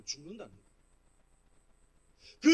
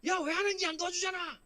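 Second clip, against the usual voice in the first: raised-pitch mock taunt of a tormentor; taunting bully; 5 semitones higher than usual. Persecutor jeering at a victim who prays, taunting bully. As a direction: goad the victim mockingly, pitch climbing. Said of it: "그러면서 괴롭히는 거예요".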